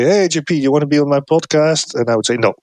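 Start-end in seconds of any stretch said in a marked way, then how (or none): 0.0-1.9 mock invitation. Shown as a demonstration. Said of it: "you would say". 2.4-2.5 blunt no. Shown as a demonstration. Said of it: "That sounds blunt".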